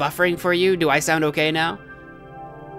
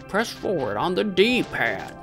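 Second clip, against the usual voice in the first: mock instructor voice; 3 semitones higher, slower than usual. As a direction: echo the instructions back slowly. Mimics the game character.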